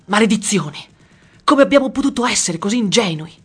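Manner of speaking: shouting. Acted. Old man shouting after smashing a glass. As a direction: yell it out in exasperation.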